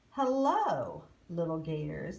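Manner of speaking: sneer. Acted. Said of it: "they said with a sneer".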